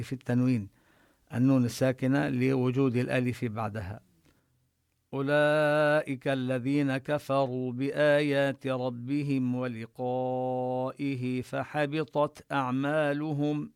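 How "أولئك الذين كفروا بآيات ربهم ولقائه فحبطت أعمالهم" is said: slow, drawn-out tajweed recitation; teacher modelling the full verse; Quran recitation. Shown as a demonstration. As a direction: chant the verse slowly and evenly. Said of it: "teacher recites the verse".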